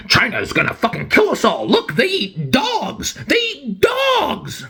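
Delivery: mock a fearmonger working into a high-pitched frenzy; mock panic. Australian ruling class warning everyone about China, mock panic. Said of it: "Australian ruling class comes along and it's like".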